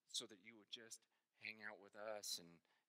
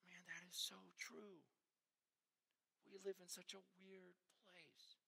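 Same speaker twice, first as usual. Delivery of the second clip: whispered thought; 7 semitones higher, 8 dB quieter than usual. Retold or imitated. Inner thought after the call.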